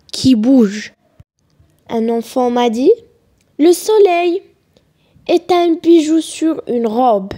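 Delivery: measured poem reading with pauses between phrases; deliberate classroom recitation. Acted. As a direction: recite the poem line by line, letting each image settle.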